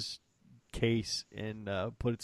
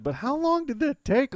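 incredulous friend; 8 dB louder than usual. Retold or imitated. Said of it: "He goes".

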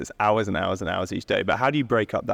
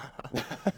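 nervous laugh; 6 semitones higher, 9 dB quieter than usual. Real, not acted. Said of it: "That was such a nervous laugh".

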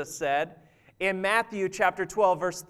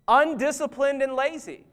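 laughing; 4 semitones higher than usual. Real, not acted. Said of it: "laughing repeat".

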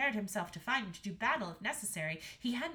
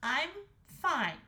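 put-on high, raised girl's voice; Astrid; 6 semitones higher, 5 dB louder than usual. A narrator's reading. Daughter reassuring the king, high-voiced. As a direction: reassure father, pitched higher. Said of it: "said Astrid".

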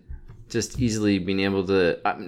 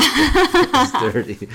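drawn-out whine; 6 dB louder, much slower than usual. Retold or imitated. Mock complaint about the counter.

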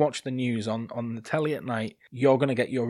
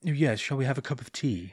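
put-on posh British accent. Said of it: "the one that talks a little bit like this".

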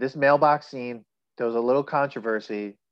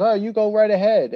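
priest quoted; 6 semitones higher, 5 dB louder than usual. Retold or imitated. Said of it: "And he goes".

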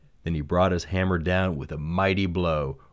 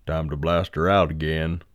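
crew boss voice. Acted. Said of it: "the crew boss said".

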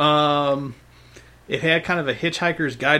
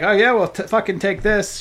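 mock pissed-off; 5 semitones higher, 3 dB louder than usual. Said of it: "she's super pissed off".

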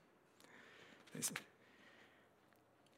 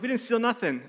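mom's protest; 7 semitones higher than usual. Retold or imitated. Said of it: "My mom's like".

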